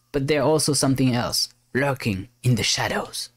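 storytelling captain recording a mission log; captain's log. Acted. Captain records log on mysterious island, dramatic narration.

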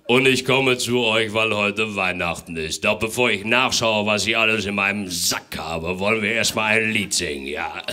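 a booming, stern Santa. Acted. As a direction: play a strict Father Christmas. Santa voice, loud.

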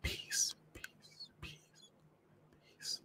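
barely audible whisper, repeated with gaps; mouthed plea. A narrator's reading. Girl silently begging a passing man for help, faint whisper. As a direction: mouth it almost soundlessly, pleading for help. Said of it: "I mouthed the word, pleading for help".

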